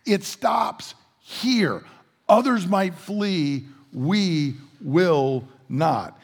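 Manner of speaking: high, insistent no, no, no, slowing to a stubborn stand; mock the overconfident disciples, voice up high; disciples' cocky denial. Disciples brushing off Jesus' warning, high, cocky and dug in. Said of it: "they're like".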